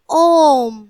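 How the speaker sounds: "ओम" with the vowel held a little longer; prolonged vowel. Shown as a demonstration. Teacher repeats the example for the children, a slightly lengthened "ओम". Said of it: "तो ये ज्यादा समय लग रहा है".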